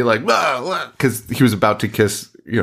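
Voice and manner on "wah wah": raised mock whine; mock tantrum. Podcaster mocking Charlie storming away, whiny. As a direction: imitate a sulky storm-off. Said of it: "like, storms away".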